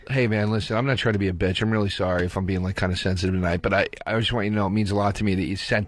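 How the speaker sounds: low, earnest mock apology; sincere apology, mocked. Joe calling friend back, low earnest apologetic mock. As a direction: play it humble and sensitive. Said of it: "I call each one of 'em, and I go".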